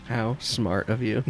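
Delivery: slow, wry compliment; dry praise. Pretend. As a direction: draw it out approvingly.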